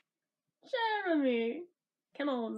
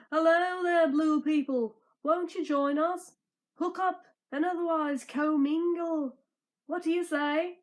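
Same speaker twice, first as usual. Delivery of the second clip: louder cheerful greeting voice; lightly voiced jolly hero; hearty welcome; 2 semitones higher, 5 dB louder than usual. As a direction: call out to them warmly. Welcoming the blue people.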